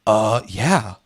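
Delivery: lightly voiced naive girl, hesitant; a hint of a childish girl answering. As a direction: mimic a timid childlike yes. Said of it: "like a child".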